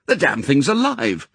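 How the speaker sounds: mild horrified outburst; aghast. Acted. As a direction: blurt it out in disgust and alarm.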